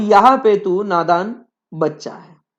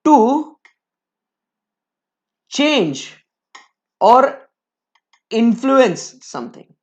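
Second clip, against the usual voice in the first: slow dictation; much slower than usual. Shown as a demonstration. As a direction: pause between every word. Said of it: "teacher dictating definition". ("To change or influence something" रुक-रुक कर लिखवाना)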